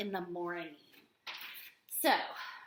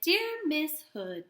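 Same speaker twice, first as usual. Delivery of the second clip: "Dear Miss Hood." read slowly with a little pause after "Hood."; pause at the comma; 4 semitones higher, slower than usual. Shown as a demonstration. Teacher shows class the comma pause, slow read. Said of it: "I just kinda paused".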